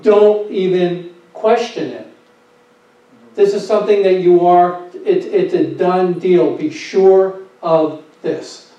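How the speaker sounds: stern and firm. Retold or imitated. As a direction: lay down the law with calm certainty. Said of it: "he's saying it sternly and firmly".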